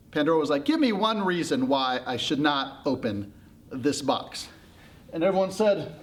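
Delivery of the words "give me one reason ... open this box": slow, deliberate dare; demanding challenge. Acted. Pandora challenging everyone to justify the rule, deliberately. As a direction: lay the demand down word by word.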